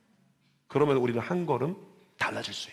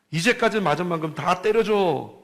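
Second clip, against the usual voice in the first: higher, louder urging to hit back; mother's fierce order; 5 semitones higher, 6 dB louder than usual. Retold or imitated. Mother urging her son to hit the bully, loud. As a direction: push him to get even, fierce.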